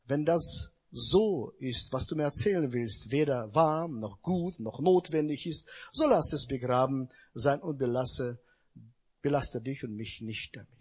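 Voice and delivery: a kindly wise man letting the gossip drop; smiling sage. Acted. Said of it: "Also lächelte der Weise".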